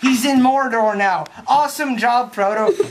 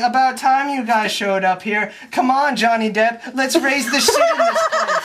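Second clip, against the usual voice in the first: cheerful pirates rallying, breaking into laughter; rowdy pirates; 3 semitones higher than usual. Retold or imitated. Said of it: "So they're like".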